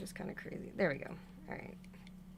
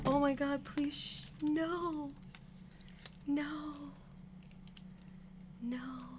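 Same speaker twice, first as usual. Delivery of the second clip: real dismay; 6 semitones higher, 8 dB quieter than usual. Real, not acted. Doll piece put in wrong.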